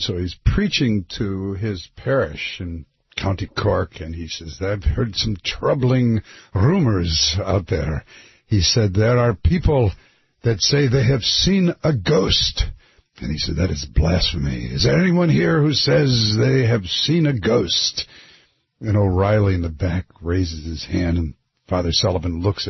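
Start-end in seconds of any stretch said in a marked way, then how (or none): 4.6-8.0 slow, would-be Irish priest; Irish accent sounding Scottish. Acted. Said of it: "your Irish accent is Scottish". 8.9-12.6 put-on Irish accent sounding Scottish. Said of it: "your Irish accent is Scottish". 13.6-18.1 put-on preaching priest with a shaky grasp of Irish accent; Irish accent sounding Scottish. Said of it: "your Irish accent is Scottish".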